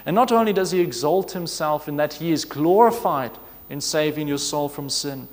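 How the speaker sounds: normal talking voice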